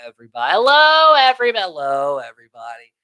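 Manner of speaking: high swooping hello on repeat; imitated old-lady singsong; dotty aunt greeting. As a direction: sing out the greeting, rising high and falling away. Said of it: "go say hello to everybody".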